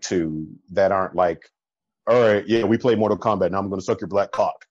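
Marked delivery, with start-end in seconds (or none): 2.1-4.7 crude hookup guy. Retold or imitated. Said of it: "the way you said that just made me cringe".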